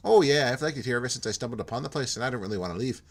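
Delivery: light Irish lilt on a friendly loner; a hint of Irish brogue; Irish-tinged accent. Jim admitting to Porto he likes being alone, lightly Irish. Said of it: "my Minnesota just turned Irish".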